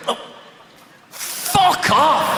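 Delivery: sudden high yelled swear; shouted swear. Retold or imitated. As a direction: blurt it out in pain after the bang. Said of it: "I sort of went".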